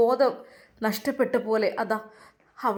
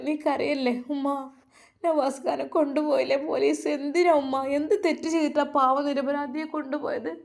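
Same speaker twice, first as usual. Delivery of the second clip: mild tearful plea; 3 semitones higher than usual. Acted. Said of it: "കരയുകയാണ്".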